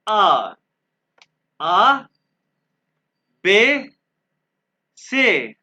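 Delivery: each letter called out loud and drawn out, one by one; German alphabet drill. Shown as a demonstration. Teacher reciting the German alphabet for students to repeat, loud and clear. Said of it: "जैसे मैं pronounce करूँ".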